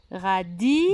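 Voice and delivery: "radis" with the last i held long; final sound stretched. Shown as a demonstration. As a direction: draw out the end of "radis". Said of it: "On entend I à la fin".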